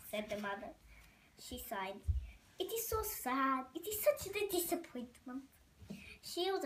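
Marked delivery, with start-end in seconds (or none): 2.6-5.4 sighing French lady, a touch of drama; lightly French-accented lament. Acted. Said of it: "A, a French accent".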